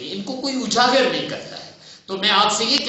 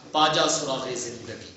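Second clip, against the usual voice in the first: slow quoted verse; 7 semitones lower, 4 dB quieter than usual. Shown as a demonstration. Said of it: "میں نے آپ سے لفظ بولا تھا".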